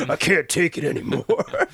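put-on playful British accent lament. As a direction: complain in a hammed-up British accent. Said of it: "That's my British accent".

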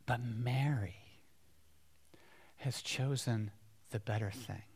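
soft, tender reply, dropping quiet; gentle Jesus. Acted. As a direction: say it calmly, reassuring her. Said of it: "He says".

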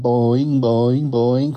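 imitated springy bounces; bouncing boings in rhythm; kangaroo jumping noise. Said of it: "every time they jump".

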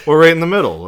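said high and loud through laughter; laughing. Real, not acted. Laughing at his own Mainer joke. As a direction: still cracking up as he talks.

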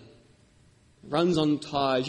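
It runs on tyres, slowed and stressed on runs; slow emphasis. Shown as a demonstration. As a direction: lean on runs, slowly. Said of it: "It runs on the tyres".

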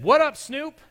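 high, loud buddy shout; a friend hollering a nickname down the phone; playful high yell at a friend; caller's greeting. Retold or imitated. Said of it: "the person on the other end said".

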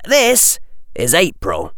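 a hint of a sharp, businesslike boy; boy pressing for terms; young Harry. Harry answers.

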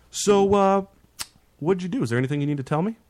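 leading, mock-gentle questioning with pauses; talking to a kid. President guilts the driver toward the truth, imitating a parent. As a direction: coax a confession as if from a child. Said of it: "like he's talking to a kid".

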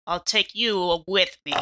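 low, slow dying defiance; defiant last words. Acted. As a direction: spit it out slowly. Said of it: "I spit in its face".

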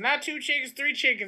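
"three" stressed against "two"; contrast two and three. Pretend. Local correcting directions, stressing "three" over "two" in a light Southern accent.

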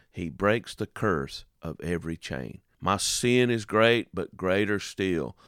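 slow, tender hymn recitation; reciting song lyrics. Acted. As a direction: savor each line of the lyrics slowly. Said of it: "here's what the lyrics say".

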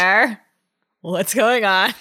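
slow, drawn-out question; slowly asked. Shown as a demonstration. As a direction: ask it slowly and carefully. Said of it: "Grace slowly asked".

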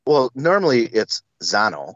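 Zano with a broad open a, said carefully; Zano, not Zanau. Shown as a demonstration. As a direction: give Zano as the family says it. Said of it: "How do you pronounce your last name?".

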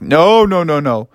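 firm opening "no", then tapering; a hint of a stern dad; dad refusing. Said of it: "Froggy's dad was like".

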